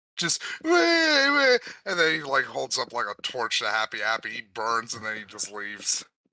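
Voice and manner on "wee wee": put-on very high, drawn-out little-kid crying sound. Imagining a character coming in lackadaisical, imitating little kid crying. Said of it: "like an actual little kid cry".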